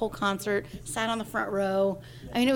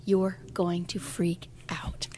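slow hushed whisper, imitating husband; 3 semitones lower, 4 dB quieter, much slower than usual. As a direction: breathe it low and secret, drawn out. Husband quoted, hushed secret.

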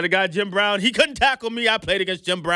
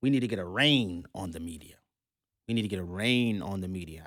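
mock quote; 11 semitones lower, 6 dB quieter than usual. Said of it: "to say it in her words".

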